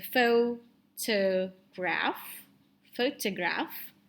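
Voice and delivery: "photograph" slow, split foh-to-graaf; modelled long vowels. Shown as a demonstration. Teacher shows how it is pronounced, "photograph" slow with long vowels. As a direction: stretch "photograph" syllable by syllable. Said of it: "Jangan lupa ini long vowels".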